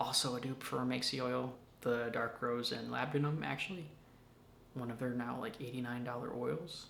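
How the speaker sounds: secretive, very quiet, barely audible half-whisper. A seller talking to viewers about her oils, half-whispering. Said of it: "I don't know why I'm whispering".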